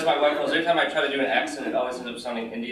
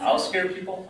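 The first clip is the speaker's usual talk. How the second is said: high, questioning "I'll scare people?"; incredulous echo; 7 semitones higher than usual. Acted. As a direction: throw "I'll scare people?" back in disbelief. His incredulous echo of her answer.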